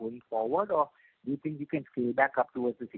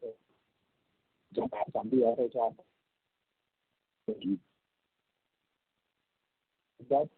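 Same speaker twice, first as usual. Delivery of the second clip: choppy, breaking-up phone line; bad connection; slower than usual. Real, not acted. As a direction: voice cutting in and out. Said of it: "You're breaking up".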